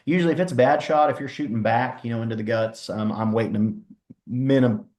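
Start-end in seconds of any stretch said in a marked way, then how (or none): 2.9-4.9 hiccuping mid-word; words cut off by hiccups. Real, not acted. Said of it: "excuse me, I have the hiccups".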